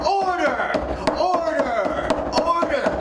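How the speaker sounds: high, repeated gavel-banging cries; judge shouting order. Acted. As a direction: yell for order in court.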